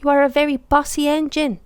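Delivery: huffed. A narrator's reading. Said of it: "huffed Billy".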